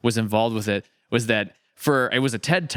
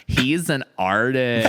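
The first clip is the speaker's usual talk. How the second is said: slow, mock-grand announcement; 3 semitones higher, 3 dB louder, slower than usual. Real, not acted. Host teasing the actor about art school, mock grand. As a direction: play up the word artist.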